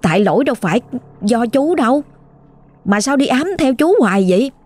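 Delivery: mildly exasperated, pitch lifting on the complaint; retold annoyance. Driver protesting to a haunting ghost, mildly annoyed. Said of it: "bị bực trong người lắm rồi".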